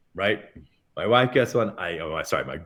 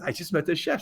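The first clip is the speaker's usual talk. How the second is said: retold announcement; 7 semitones higher, 3 dB quieter than usual. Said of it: "at first I said".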